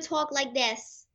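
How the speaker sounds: imitating a child's thick New York accent; little kid New York accent. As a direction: put on a little kid's New York twang. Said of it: "really thick little kid New York accent".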